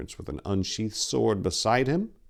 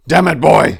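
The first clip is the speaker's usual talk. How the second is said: loud, high, insistent; pressing, angry; 10 semitones higher, 16 dB louder than usual. A narrator's reading. Tor pressing the shaking boy, angry. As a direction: press him hard to get a grip. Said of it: "he pressed".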